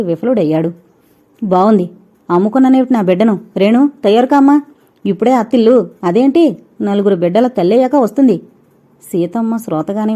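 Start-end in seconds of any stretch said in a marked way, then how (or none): 1.4-8.4 loud and fast, scornful mother; a mother refusing to let her daughter go, indignant; indignant outburst. Acted. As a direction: bristle and brush the request aside loudly. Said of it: "నిర్లక్ష్యంగా తోసిపుచ్చిందామె".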